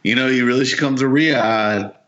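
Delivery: lightly voiced smug invitation; mock Saudi host. Saudi host inviting Americans to Riyadh, a hint of smug mockery. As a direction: invite them over with a sly grin.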